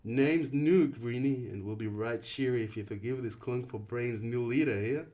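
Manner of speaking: put-on cheery English greeting to the new boy; a light British accent, upbeat; British accent, friendly. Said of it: "His voice was thick with a weird accent".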